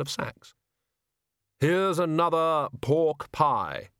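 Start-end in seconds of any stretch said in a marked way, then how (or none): 1.6-3.9 slow, drawn-out gruff voice. A narrator's reading. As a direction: hand it over slowly, gruffly. Figure offers food.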